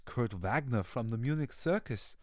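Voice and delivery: lightly put-on German accent, lifting to a showman's flourish; a touch of theatrical German-accented circus introduction; Nightcrawler impression. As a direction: announce yourself with a hint of a German accent. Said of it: "I hope that we get to see what's his face".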